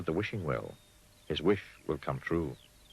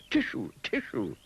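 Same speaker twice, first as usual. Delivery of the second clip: sneezing tissue; 7 semitones higher, slower than usual. A narrator's reading. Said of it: "sneezed the pig".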